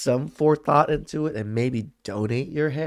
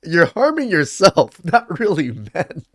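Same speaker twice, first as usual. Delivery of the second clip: loud, raised-pitch rant; exasperated amusement; 5 semitones higher, 7 dB louder than usual. Real, not acted. Host tells women they only harm themselves, loud exasperation. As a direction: raise the voice, half laughing in disbelief.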